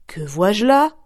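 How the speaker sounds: mother's loud surprise; astonished mother. Acted. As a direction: gasp it out in amazement. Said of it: "dit sa mère tout étonnée".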